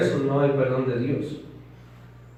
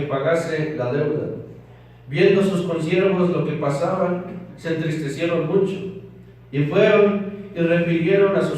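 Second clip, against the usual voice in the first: scripture reading; 3 semitones higher than usual. Acted. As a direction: proclaim the parable to the congregation. Reads the parable aloud. (lectura solemne de la escritura, más alta y fuerte)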